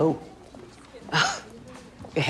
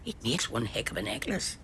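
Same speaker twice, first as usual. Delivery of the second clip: whisper; 2 semitones lower, 6 dB quieter than usual. Real, not acted. Granny whispers a joke to Buddy during the play. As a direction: lean over and whisper so the audience can't hear.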